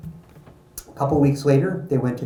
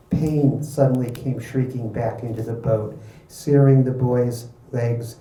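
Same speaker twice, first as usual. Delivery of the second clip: animated book reading, pitched up; story narration; 4 dB louder than usual. A narrator's reading. Author reading a race scene to an audience, animated narration. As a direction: read it out like a dramatic race story.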